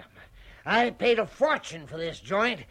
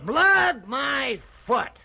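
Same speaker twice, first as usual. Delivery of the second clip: scoffing; 3 semitones higher, 5 dB louder, much slower than usual. Acted. Father mocks ghost's cry.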